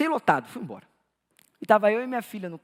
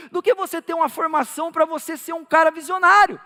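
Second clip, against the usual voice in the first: impassioned, raised-pitch preaching; 5 semitones higher, 4 dB louder than usual. Real, not acted. Pastor warning parents about their children's priorities, impassioned preaching. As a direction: drive the warning home to the congregation.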